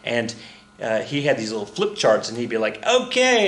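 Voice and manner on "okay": higher-pitched mock folksy politician's accent; raised-pitch impression, broken off early; Ross Perot. Teacher mimicking a billionaire candidate on TV, playful impression. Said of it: "I was about to do his accent".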